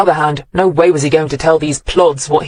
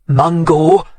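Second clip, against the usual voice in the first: warning. A narrator's reading. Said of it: "the rabbit mole warned".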